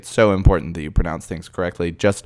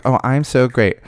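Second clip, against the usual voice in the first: a touch of mock bragging, a bit higher and louder; mock boastful; 5 semitones higher, 3 dB louder than usual. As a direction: brag in jest, lightly. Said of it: "I'm not saying, like".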